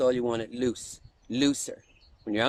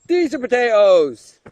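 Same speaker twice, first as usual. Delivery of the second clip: emphatic repeat; 4 semitones higher, 8 dB louder than usual. Acted. Repeated louder, stress on these.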